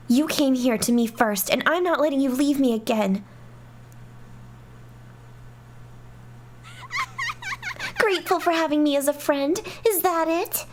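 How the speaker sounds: reading the dialogue with a hint of each character; a mildly acted argument between princess and friend; lightly voiced game characters. Reads game dialogue aloud.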